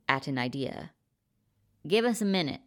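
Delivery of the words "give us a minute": snapped. A narrator's reading. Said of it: "he snapped".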